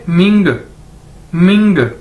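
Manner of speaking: "मिंग" said separately with a clear final g; model pronunciation. Shown as a demonstration. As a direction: drill "मिंग" with a pause between takes. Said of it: "इसको कैसे पढ़ेंगे?".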